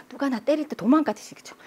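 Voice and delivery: normal talking voice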